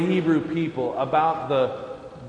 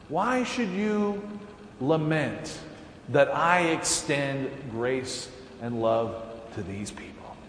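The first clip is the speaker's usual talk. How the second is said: gentle question; 4 dB quieter than usual. Acted. God gently questioning Jonah.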